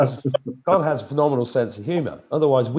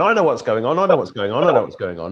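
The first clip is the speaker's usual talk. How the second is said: louder, insistent boasting in mimicry; mock know-it-all; 5 dB louder than usual. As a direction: imitate cocksure pundits repeating their claim. Mimics channels claiming to know.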